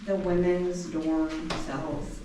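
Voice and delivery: winded after climbing stairs; out of breath. Real, not acted. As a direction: talk while catching your breath. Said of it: "I'm out of breath when I'm up here".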